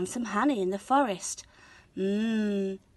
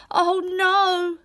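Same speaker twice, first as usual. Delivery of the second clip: higher, louder alarmed cry; boy dismayed as porridge spills; 10 semitones higher, 5 dB louder than usual. A narrator's reading. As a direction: gasp it in alarm. Pot overflowing.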